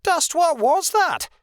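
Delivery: high, drawn-out alarmed shout; loud, shrieked question. A narrator's reading. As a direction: shout the demand slowly, very high. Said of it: "Rebecca shouted".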